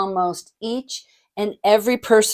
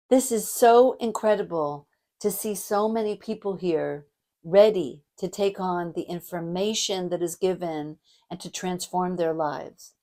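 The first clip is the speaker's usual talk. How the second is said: gentle and caring; 2 semitones lower than usual. Shown as a demonstration. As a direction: settle gently into heartfelt praise. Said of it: "I'm gonna lower the tone of my voice".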